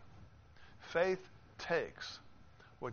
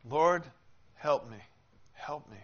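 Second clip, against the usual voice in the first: desperate pleading; 7 dB louder than usual. Acted. Woman begging Jesus for help, loud desperate plea. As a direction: cry out as if refusing to let go.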